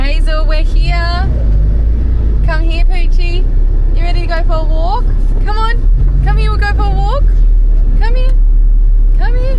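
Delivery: high, fast sing-song dog call. Real, not acted. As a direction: coax the dog over in a bright high voice. Calling the dog over.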